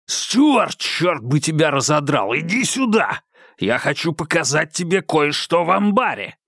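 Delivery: high yell across the dark. Acted. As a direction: call him back with a yell. Congden yelling after fleeing Dale.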